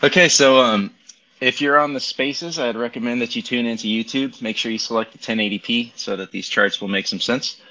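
thin tinny mic sound; tinny Bluetooth audio. Real, not acted. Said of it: "if I sound a little bit tinny today".

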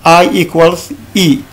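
I equals I read slowly; deliberate teacher read; slow dictation. Shown as a demonstration. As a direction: spell it out slowly for the class. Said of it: "j'ai écrit en bas".

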